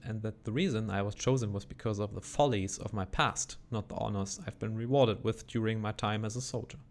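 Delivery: measured dramatic reading of a confession; reading a diary. Acted. Reading a doomed soldier's final confession to chat, measured and dramatic. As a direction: read it like a dying man's last letter. Reads in-game diary aloud.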